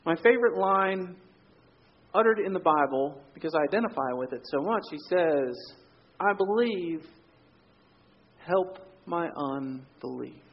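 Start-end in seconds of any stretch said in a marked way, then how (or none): 6.2-10.4 desperate plea. Retold or imitated. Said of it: "desperation in this man's voice".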